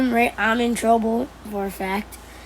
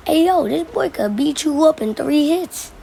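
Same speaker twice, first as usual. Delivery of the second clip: retold taunting call; 5 semitones higher, 3 dB louder than usual. Retold calling out to tough friend.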